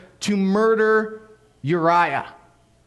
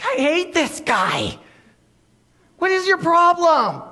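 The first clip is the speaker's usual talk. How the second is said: slow then loud, higher mock fury; exasperated outburst; 11 semitones higher, 4 dB louder than usual. King fuming at Uriah asleep on his step, exasperated shout. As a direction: blow up at the sleeping soldier. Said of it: "Just like".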